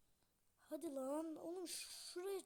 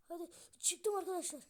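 triumphant; 3 semitones higher, 6 dB louder than usual. Real, not acted. Gamer telling viewers he made it, triumphant. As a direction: celebrate the climb.

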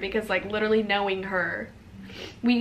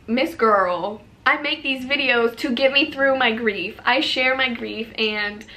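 mock retort to a hater; 3 semitones higher, 5 dB louder than usual. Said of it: "And I'm like".

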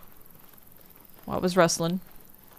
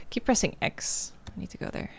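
hushed unvoiced whisper; 5 semitones higher, 7 dB quieter than usual. Real, not acted. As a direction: whisper so the horde won't hear. Sneaking near horde.

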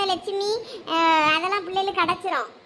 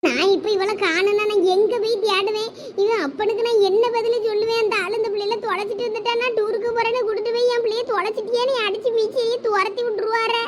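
tearful wailing. Acted. Mother laments over her missing child, tearful wailing. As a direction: wail helplessly, stretching the last words. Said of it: "இப்படி இளவு உளுந்த கிடங்க அழுதுட்டேடக்கா".

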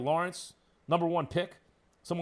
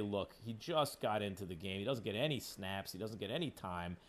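mock apologist; 5 semitones lower than usual. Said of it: "you'd say".

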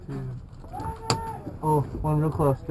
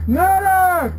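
man down shout; 5 dB louder than usual. Real, not acted. Calling for medic.

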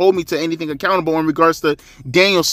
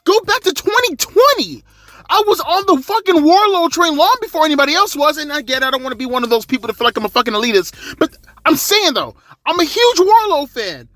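much higher, loud, fired-up ranting; real excitement, pitched way up and loud; hyped up; 13 semitones higher, 3 dB louder than usual. Real, not acted. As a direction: gush about him like you can't contain it. Hyped rant about Wardlow's promo.

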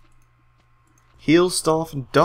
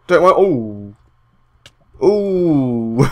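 startled; 8 dB louder, much slower than usual. Real, not acted. Startled loud outburst.

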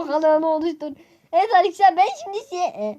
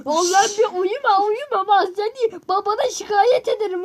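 scolding; 5 semitones higher, 3 dB louder than usual. Real, not acted. Scolding sleeping brother.

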